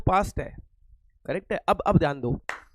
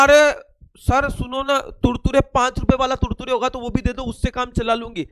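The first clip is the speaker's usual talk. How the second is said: put-on begging child; 2 semitones higher than usual. Shifa begs for cheaper packet.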